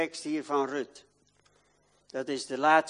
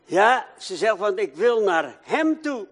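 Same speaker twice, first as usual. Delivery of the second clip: laughing; 8 semitones higher, 9 dB louder than usual. Real, not acted. Laughing while retelling.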